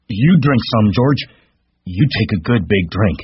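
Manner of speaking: high, eager simple giant; big simple man, happily urging George to drink; happy Lenny. A narrator's reading. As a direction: offer it up with childlike glee. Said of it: "He smiled happily".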